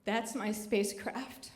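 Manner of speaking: soft, slow near-whisper; retold whisper. Mother confiding to her teenage son in the cinema, whispering. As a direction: lean in and confide it quietly, slowly. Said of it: "I whisper to him".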